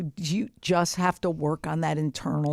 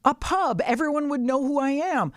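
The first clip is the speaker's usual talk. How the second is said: dreamy excitement; 5 semitones higher, slower than usual. Retold or imitated. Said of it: "I was like".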